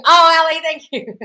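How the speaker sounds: high, loud happy oh; delighted thanks. Real, not acted. Thanking Ali for anniversary wishes, high and bright.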